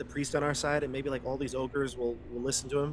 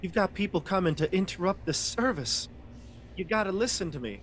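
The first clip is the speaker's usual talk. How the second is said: pleading, pitched up high; urgent pleading; 6 semitones higher than usual. Acted. Character warns the priest of intruders, urgent pleading. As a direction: press for the priest's attention.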